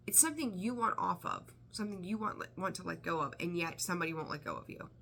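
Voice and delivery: normal talking voice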